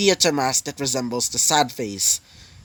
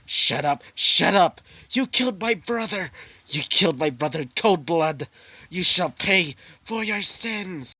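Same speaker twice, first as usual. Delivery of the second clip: raging accusation; 4 semitones higher than usual. Acted. Demon raging at brother's killer.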